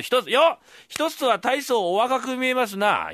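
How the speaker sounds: high, slow fawning praise; slow flattering recital; slow mock flattery. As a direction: ham up the compliment. Fool recites flattery third time.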